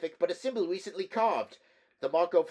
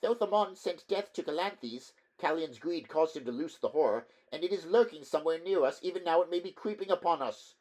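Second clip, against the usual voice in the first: high, tense, fearful voice; fearful clerk; 7 semitones higher, 6 dB louder than usual. Acted. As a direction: warn them, rising dread. Terrified clerk warns of horror.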